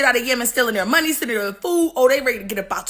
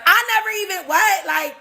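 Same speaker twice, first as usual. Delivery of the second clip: innocent surprise; 5 semitones higher than usual. Retold or imitated. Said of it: "France was like".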